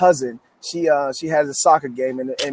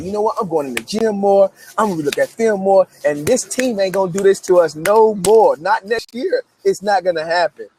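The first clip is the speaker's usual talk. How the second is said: determined vow; 5 semitones higher than usual. Retold or imitated. Vowing to beat rival team.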